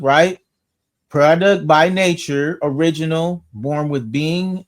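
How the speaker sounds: slow, measured reading of a dictionary entry; dictionary entry read aloud to the group. Shown as a demonstration. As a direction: read the old definition out deliberately. Reads 1828 Webster entry aloud.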